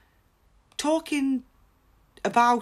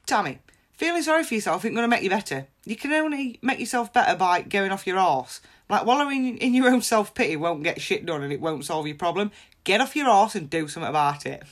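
tough love. Shown as a demonstration. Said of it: "Now that would have made me feel more worthless".

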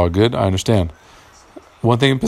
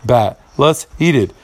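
mock bat-eater; 6 semitones higher than usual. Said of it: "Why the fuck does someone want to say".

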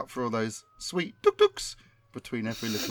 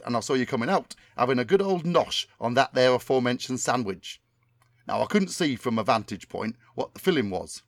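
Tommy Cannon impression. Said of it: "my memory of what Tommy Cannon sounds like".

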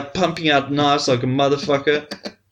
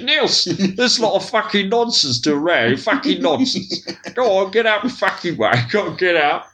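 mock telling off; 3 semitones higher than usual. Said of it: "I should have said".

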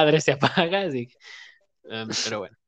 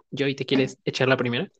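usual speaking voice

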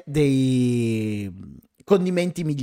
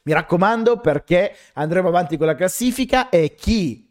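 upbeat stream sign-off announcement; announcer voice; 2 semitones higher than usual. Acted. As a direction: wrap up the live like a host. Closing announcement of the live.

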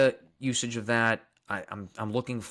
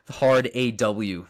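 Long Island hard aw; 5 dB louder, much slower than usual. Shown as a demonstration. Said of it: "the way I pronounce things".

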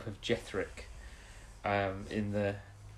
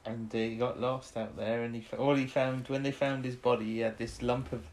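a hint of a West Country storyteller recalling his miner father; West Country accent; 3 semitones higher than usual. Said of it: "He was going a bit like that".

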